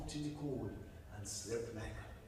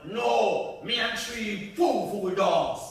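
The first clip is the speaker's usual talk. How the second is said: louder, slow and scornful; cocky girl; 6 semitones higher, 10 dB louder, slower than usual. Acted. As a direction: brush off the danger. Buddy answers the head.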